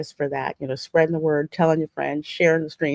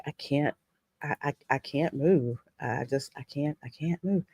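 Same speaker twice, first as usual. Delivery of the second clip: feeble helplessness; 5 semitones lower, 9 dB quieter than usual. Acted. Acting someone unable to move.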